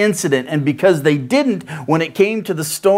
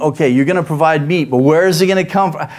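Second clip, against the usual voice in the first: doubtful Moses, rising higher; Moses doubting; 3 semitones higher than usual. Retold or imitated. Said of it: "Moses is thinking".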